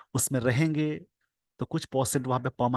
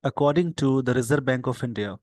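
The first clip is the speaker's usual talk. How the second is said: slow dictation; much slower than usual. Shown as a demonstration. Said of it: "slow dictation reading".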